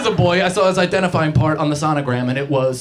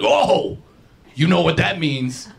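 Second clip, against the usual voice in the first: excited relatives; 2 semitones higher, slower than usual. Retold or imitated. Family quoted excitedly.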